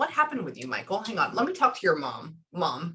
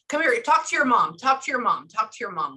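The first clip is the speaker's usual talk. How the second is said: insistent, repeated prodding, easing off; mock bossy urging, first words punched; imitating nagging mom. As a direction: keep prodding, quick and insistent. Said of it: "like that".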